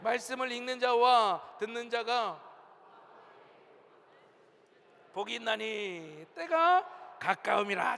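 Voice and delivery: slow, measured scripture reading; leading unison reading. Real, not acted. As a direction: lead a congregation reading together, stretching phrase endings. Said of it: "우리 다 같이 한번 읽어봅시다".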